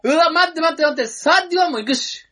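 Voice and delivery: high, loud frantic plea; desperate protest. Pretend. Comic begging partner to count another similarity, desperate protest. Desperate pleading in mock argument.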